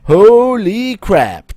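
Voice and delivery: high, loud, drawn-out astonishment; amazed exclamation. Acted. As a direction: stretch it out in big, hammy amazement. Johnny's amazed reaction, read aloud.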